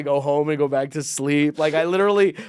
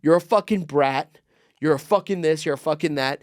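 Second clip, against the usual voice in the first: retold boss's rant, hard opening; mock the fed-up boss cursing someone out; imitating an angry snap; 2 semitones higher, 4 dB louder than usual. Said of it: "he's so angry with us".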